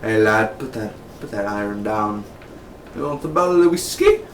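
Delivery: playful stock Irishman with an Irish lilt; mock Irish accent. Joking as an Irish mobster, mock Irish accent. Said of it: "I'm not making fun of the Irish".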